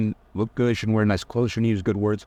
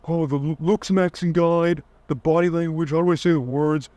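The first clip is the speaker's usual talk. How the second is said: fretful guy; 7 semitones higher than usual. Retold or imitated. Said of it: "folks that are like".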